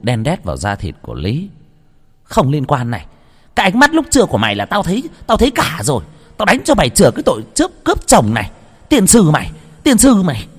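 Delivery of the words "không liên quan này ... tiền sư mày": much higher, louder, fast screaming curse; furious beating rage. A narrator's reading. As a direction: scream at her while lashing the whip. Cô chủ đánh Lý. (cô chủ gào chửi giận dữ, cao và to)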